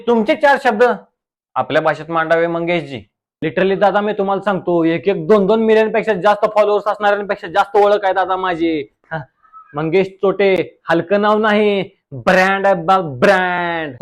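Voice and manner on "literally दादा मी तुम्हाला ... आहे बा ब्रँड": reel star guest voice. Acted. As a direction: play the smug village reel star. (Reel स्टारचा आवाज)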